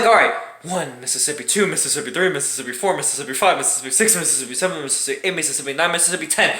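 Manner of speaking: low, soft nervous counting; hushed tense count; counting under breath. Retold or imitated. Counting before restarting car.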